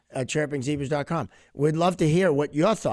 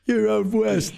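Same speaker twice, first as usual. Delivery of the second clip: mock sneer; 8 semitones higher, 4 dB louder, slower than usual. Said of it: "mock quote of players".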